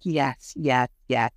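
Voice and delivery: lightly voiced little princess; mocking princess voice. Mocking the ex's answers in court, light princess voice. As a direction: mimic her with a hint of prissy princess. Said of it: "in her little fucking princess voice".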